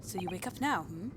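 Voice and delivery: rough attempt at a Russian accent. Russian guy questioning his prisoner, attempted Russian accent. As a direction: put on an amateur Russian accent. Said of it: "it's the Russian guy".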